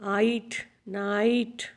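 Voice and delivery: आइट without the n, then the whole नाइट; word sounded out. Shown as a demonstration. Teacher telling pupils to follow sound, आइट then नाइट sounded out. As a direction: build नाइट from its "ite" sound. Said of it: "अपने sound पे जाना है".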